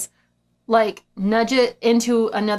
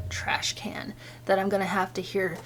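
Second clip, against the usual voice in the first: whisper; 3 semitones lower, 9 dB quieter than usual. Real, not acted. Dreading the trapped mouse.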